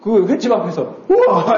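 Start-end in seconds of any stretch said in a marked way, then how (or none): 1.1-1.6 drawn-out mock gasp of wonder; mock wow. Asking if anyone marvels at restaurant tank fish, mock wow. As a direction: pretend to marvel, half laughing. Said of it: "이래요?".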